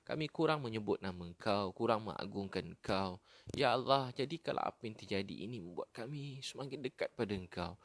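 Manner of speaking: earnest supplication in short, repeated petitions; pleading prayer. Acted. Preacher praying to Allah for forgiveness and guidance, pleading. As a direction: plead with God, phrase after phrase.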